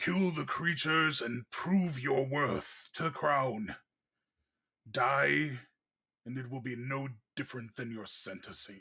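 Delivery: booming, resounding voice. Narrating a voice from the halls during combat, in a booming Dothlin voice. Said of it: "a voice booms out from uh, the halls".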